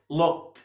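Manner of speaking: looked as "lookt", one syllable; final T sound. Shown as a demonstration. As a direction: end looked on a crisp t instead of d. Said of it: "بنطق دي هنا تي". (نطق looked بتاء في آخرها)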